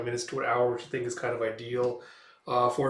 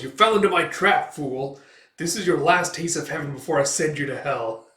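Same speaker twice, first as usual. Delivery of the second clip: demon taunt; 2 semitones higher, 6 dB louder than usual. Acted. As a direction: sneer it out like a seductive demon. Demon woman taunts Guts.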